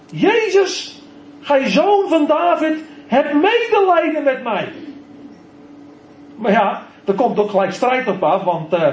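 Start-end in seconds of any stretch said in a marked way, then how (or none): 0.1-4.7 high, pleading call to Jezus; loud crying out. Acted. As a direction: roep het uit, smekend en hoog. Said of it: "En hij begint luidkeels te roepen". (luid roepend om medelijden)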